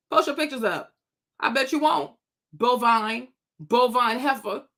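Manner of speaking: ordinary delivery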